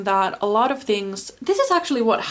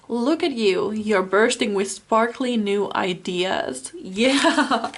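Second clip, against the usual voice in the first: laughing delight; 4 dB louder, slower than usual. Real, not acted. Delighted card reading.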